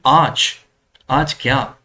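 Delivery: "आज," then a pause, then "आज क्या?"; chunked phrase with a gap after "आज"; pause after first word. Shown as a demonstration. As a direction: break after "आज" before going on. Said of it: "chunking वो कैसे कर रहे हैं".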